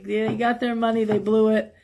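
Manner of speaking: ordinary talk, nothing marked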